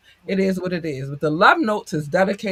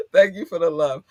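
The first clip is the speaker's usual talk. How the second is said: near tears; 3 dB louder than usual. Real, not acted. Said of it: "hold back the tears".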